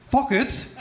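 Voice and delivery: high squeak of surprise, laughing; loud shocked yelp. Retold or imitated. Shouting in silent church.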